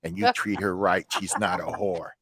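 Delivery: low, soft motherly advice; imitating a mom confiding in her son; mother's approval. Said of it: "She goes".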